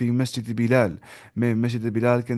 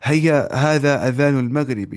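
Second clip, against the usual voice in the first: slow, drawn-out Arabic model line; slow model reading; 3 semitones higher, 4 dB louder, slower than usual. Shown as a demonstration. Teacher reading the example slowly for students. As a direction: read it slowly for the class to copy. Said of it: "ایسے بولیں گے".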